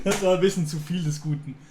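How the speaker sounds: laughing. Real, not acted.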